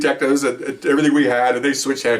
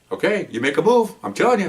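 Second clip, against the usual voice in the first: stern warning; 8 semitones higher than usual. Retold or imitated. Officer warning suspect.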